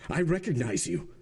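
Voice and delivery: exclaiming. A narrator's reading. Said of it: "exclaimed the king's attorney".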